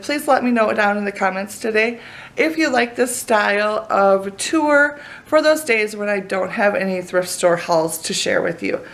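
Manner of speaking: normal talking voice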